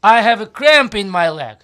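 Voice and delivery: loud, slow cramp moan; pained complaint. Retold or imitated. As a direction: groan like a cramp in cold water. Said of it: "if the water is cold, I say".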